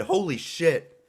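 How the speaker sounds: surprised. Real, not acted. Reacting to knockout.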